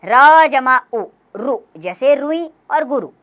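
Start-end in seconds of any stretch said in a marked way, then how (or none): 0.0-1.0 र जमा उ said slowly, each part loud and separate; slow spelled-out sounds. Shown as a demonstration. Teacher spelling out र plus उ for pupils, slow and loud. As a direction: spell out र जमा उ piece by piece, louder. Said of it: "र में उ और ऊ की मात्राएं".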